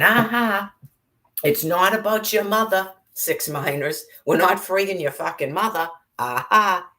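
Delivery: high, gloating mock voice with a loud Aha; mocking imitation. Ranting speaker mocks the made-up reason in a high sneering voice. Mocking quote of excuses again.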